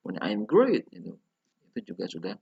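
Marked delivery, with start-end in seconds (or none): 0.2-0.9 "I'm great" loud and lifted on great; higher final intonation. Shown as a demonstration. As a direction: punch "great" high, then fall. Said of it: "intonasinya lebih tinggi di belakang".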